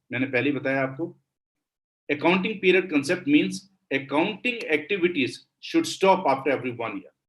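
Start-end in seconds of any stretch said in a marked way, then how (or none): 2.1-7.2 slow, deliberate dictation of a definition. Shown as a demonstration. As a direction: read it out word by word for notes.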